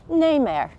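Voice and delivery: "nae mair" said in broad Ulster Scots; Ulster Scots pronunciation. Shown as a demonstration. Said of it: "You'll hear the phrase".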